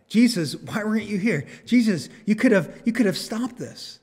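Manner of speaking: understated acted distress, pitch lifted; weeping plea. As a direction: plead with him, voicing a grieving woman's reproach. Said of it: "and she's weeping".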